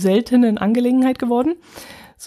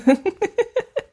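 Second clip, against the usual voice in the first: high giggle; 11 semitones higher than usual. Real, not acted. Laughing about sat-nav.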